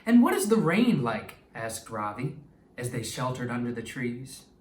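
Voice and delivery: expressive read-aloud storytelling voice; story narration. Acted. Teacher reading a story to her class, lively and expressive. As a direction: read it like a picture book to young kids.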